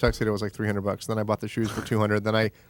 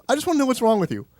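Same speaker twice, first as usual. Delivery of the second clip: much higher pitch, demanding; mock exasperated yell; 11 semitones higher, faster than usual. Friend demanding an answer, high mock yell. Retold angry phone call.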